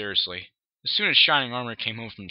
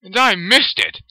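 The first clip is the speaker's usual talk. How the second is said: angry growl; 8 semitones higher, 10 dB louder, slower than usual. Acted. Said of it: "he growled angrily".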